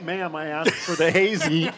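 slow, lightly voiced entitled customer; Karen voice. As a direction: ask slowly like a mild demanding customer. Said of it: "should I go full Karen".

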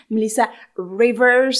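slow, loud Melissa Rivers with a thick English accent. Shown as a demonstration. Trying the name for the listeners in a thick English accent. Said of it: "avec mon accent anglais à couper au couteau".

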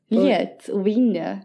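slow, stretched Gotland vowels; Gotland accent. Acted. Copying co-host's version of the line, Gotland accent. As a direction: drag it out in Gotland dialect. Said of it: "det är gotländska".

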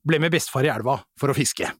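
reciting a comic verse with measured pauses; limerick recital. Real, not acted. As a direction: recite a homemade limerick, lifted at the build-up. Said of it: "jeg har laget en liten limerick".

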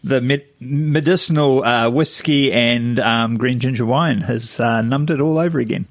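words slurred by a numb face. Real, not acted. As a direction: talk through a numb, slack mouth. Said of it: "My face is numb now".

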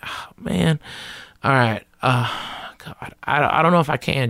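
acted-out reluctant hedging, pitch lifting. Comic stalling Jay over flying back, reluctant. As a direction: waver and stall before saying no.

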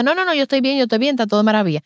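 quick, high dismissive denial; brushing it off. Retold or imitated. Mother dismisses the consultant's offer, fast and high. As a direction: rattle it off to end the topic, fast.

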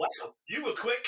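fake-impressed, stretching it out; mock surprise. Retelling a chat with a bot, mock-impressed at her speed.

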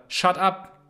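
a light, curt brush-off in English; mild mock shut up to the inner voice; mock dismissive. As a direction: tell the voice off lightly. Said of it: "weil du dieser Stimme gesagt hast".

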